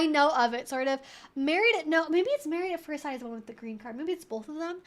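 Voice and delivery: usual speaking voice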